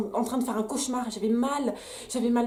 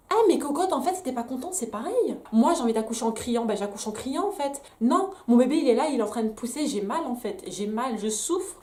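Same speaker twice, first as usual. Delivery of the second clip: heated, louder comeback at the nurse; angry retort; 3 dB louder than usual. Real, not acted. Mother answering the scolding nurse, angry and louder. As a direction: snap back, fed up and hurting. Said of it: "ma petite parenthèse, euh, vénère".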